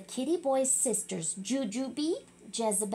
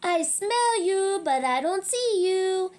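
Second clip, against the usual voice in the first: louder, higher heroic call; bold challenge; 6 semitones higher, 5 dB louder than usual. Acted. Skipito challenges the hidden chimichangos. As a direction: call out like a masked hero.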